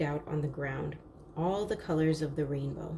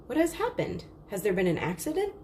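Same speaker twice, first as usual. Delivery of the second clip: a touch of alarm, quick and higher; alarmed father; 3 semitones higher, faster than usual. Acted. Father drops his axe, asks with mild alarm. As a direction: ask fast, a little worried.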